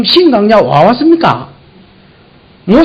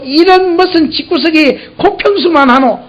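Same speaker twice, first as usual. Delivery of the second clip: mock grumbling; 7 semitones higher than usual. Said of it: "이러면서 원망하든지".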